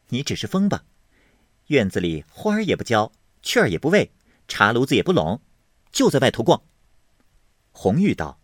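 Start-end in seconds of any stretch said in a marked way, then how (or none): 0.1-6.6 rising to a sharp scold, louder at the end; a touch of nagging anger. Acted. Qingwen scolds Hongyu for idling, mildly angry.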